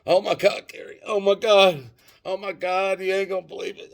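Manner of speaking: acting panicked. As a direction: ham up hysterical dread on the phone to your sister. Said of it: "I'm acting panicked as hell".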